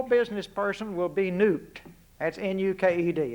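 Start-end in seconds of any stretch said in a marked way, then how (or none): 2.2-3.3 "N U K E D" spelled letter by letter. Shown as a demonstration. Joking about his Texas accent, spelling "N U K E D" letter by letter. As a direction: spell out "N U K E D" one letter at a time. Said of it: "if you can't understand my Texas accent".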